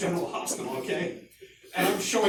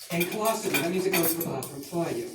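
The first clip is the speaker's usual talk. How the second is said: lightly imitated South Shore accent; mother's South Shore accent. Mother teaching medical terminology, South Shore accent. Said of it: "imagine that in that accent".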